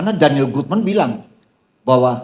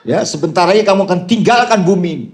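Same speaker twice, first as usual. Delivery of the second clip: laughing retort; 4 semitones higher, 4 dB louder than usual. Retold or imitated. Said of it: "Saya bilang".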